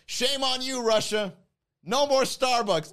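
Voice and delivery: mock scolding. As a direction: wag a finger at Russia out loud.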